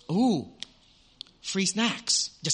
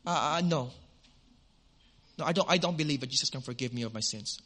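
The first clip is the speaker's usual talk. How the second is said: blunt refusal; 4 semitones lower, 4 dB quieter, faster than usual. Retold or imitated. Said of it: "she told me bluntly".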